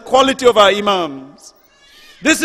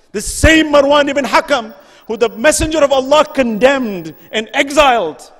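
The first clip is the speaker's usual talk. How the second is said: raised, higher, louder fervent sermon voice; impassioned preaching; 3 semitones higher, 4 dB louder than usual. Real, not acted. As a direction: build the indignation and hammer each question. Rising rebuke of the caliphate.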